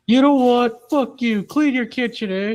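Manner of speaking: hammed-up Indian accent rage; angry Indian accent. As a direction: yell like a furious gamer in an Indian accent. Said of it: "Indian rage quit".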